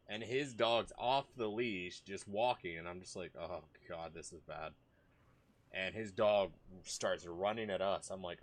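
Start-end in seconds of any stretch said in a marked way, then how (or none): 3.4-4.7 low-key, muttered dread to self; quiet retold "uh-oh" moment. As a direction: say it softly, as a sinking realization. Retold dread as dog approaches.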